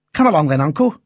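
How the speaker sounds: cheerful lad urging his uncle; child voice. A narrator's reading. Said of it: "cried the boy".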